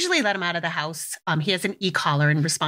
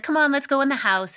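friendly coaxing; 7 semitones higher than usual. Retold or imitated. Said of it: "I just turned my demeanor around".

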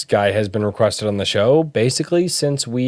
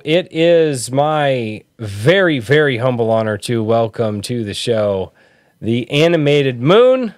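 formal host welcome. Acted.

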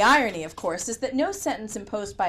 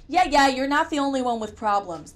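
snapping; 4 semitones higher, 4 dB louder than usual. Acted. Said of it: "the officer snapped".

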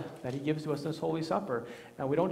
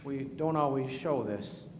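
prayer. Acted. Leads a spoken prayer.

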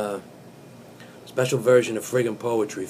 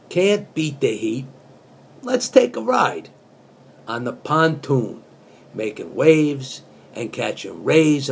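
earnest spoken-word reading of song lyrics; deadpan poet reciting pop lyrics; poetry reading; 2 semitones higher, slower than usual. Acted. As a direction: read it like serious poetry. Verse read as poetry.

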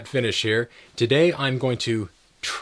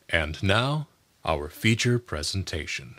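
low, solemn cinema announcer; deep announcer voice; 4 semitones lower, 4 dB quieter than usual. Shown as a demonstration. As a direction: introduce the main feature gravely. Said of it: "announcer and movie trailer voices".

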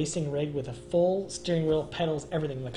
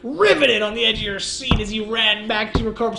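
sarcastic; 5 semitones higher, 7 dB louder than usual. Acted. Sarcastic mockery of WoW players.

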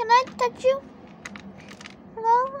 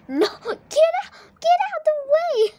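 laughing shoo; 6 semitones higher, 5 dB louder than usual. Real, not acted. Shooing the cat, laughing.

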